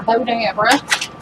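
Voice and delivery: playful Southern drawl on Bodabra; a touch of Southern accent. Pretend. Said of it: "say it in a southern accent".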